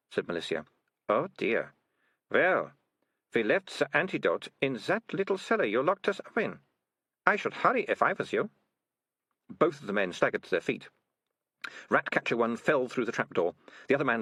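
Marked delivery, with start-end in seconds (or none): 1.1-8.5 lightly voiced girl, somewhat higher; mock-helpful girl. Melissa sending poisoned men to the cellar, mock-helpful. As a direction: advise them with feigned concern.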